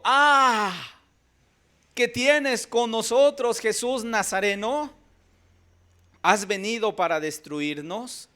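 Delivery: loud, high, slow demonic outcry; demon crying out. A narrator's reading. Possessed man crying out to Jesus, loud and drawn out. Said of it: "que dio voces".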